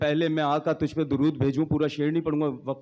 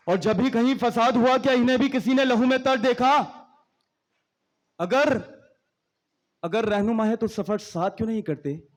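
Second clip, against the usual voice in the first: poetry recitation. Acted. Poet challenging religious leaders, impassioned declamation. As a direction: declaim each couplet, lifting the challenge lines.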